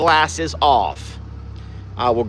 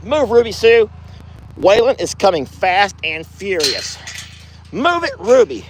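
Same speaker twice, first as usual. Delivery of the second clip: urgent, higher call to move; 3 semitones higher than usual. Real, not acted. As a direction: hurry the cow out of the way. Shooing cow, bull coming.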